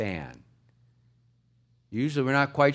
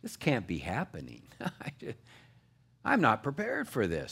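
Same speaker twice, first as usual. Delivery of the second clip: softer, stunned disbelief; denial; 3 semitones lower, 6 dB quieter than usual. Retold or imitated. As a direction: murmur it like you can't take it in. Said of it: "One is denial".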